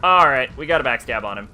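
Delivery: loud pumped-up gamer shout; excited. Real, not acted. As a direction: cheer the kill. Excited at backstab kill.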